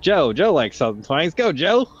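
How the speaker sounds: fun-loving Southern twang. Pretend. Player handing over to a fellow twang fan, Southern twang. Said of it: "I'm just falling into the Southern twang".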